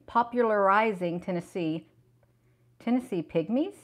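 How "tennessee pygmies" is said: surprised question. Real, not acted. Reading surprising find aloud.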